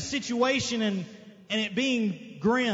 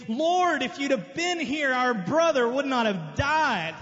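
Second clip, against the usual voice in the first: imitated tearful plea; 3 semitones higher than usual. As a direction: plead like a grieving sister, without real tears. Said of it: "the sisters come crying".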